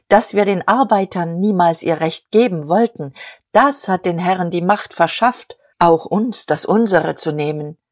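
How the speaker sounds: mild oratory, gently gathering warmth; soft voice, warming. Acted. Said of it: "mit weicher Stimme, die anschwoll und erwärmte".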